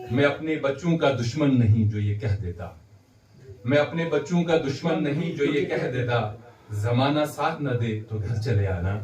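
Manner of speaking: measured mushaira couplet delivery; poetry recitation. Acted. Host quoting a father's teaching to the audience, poetry recitation. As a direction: recite the couplet, repeating its opening line.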